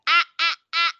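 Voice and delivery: sing-song mock of her shushing. Podcaster mimicking Michaela cutting Zach off, sing-song. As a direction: wag a finger with your voice. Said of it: "This is verbatim, guys".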